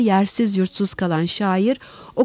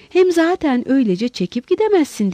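mild acted shout, pitched higher; raised-voice protest; 5 semitones higher than usual. Lowell objects to Holmes walking out, mildly shouted. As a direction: protest with a lifted, forceful voice. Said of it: "diye bağırdı Lowell".

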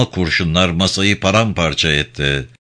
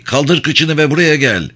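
impatient shout; 6 semitones higher than usual. A narrator's reading. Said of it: "diye bağırdı Lee".

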